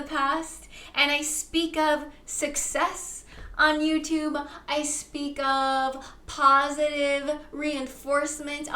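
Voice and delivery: slow, drawn-out solemn decree; a mild oracle-like incantation; manifesting declaration. Acted. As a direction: proclaim each wish as already real, slowly.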